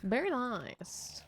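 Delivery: slow breathy whisper. Real, not acted. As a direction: whisper it slowly to yourself. Whispered reaction to S rank.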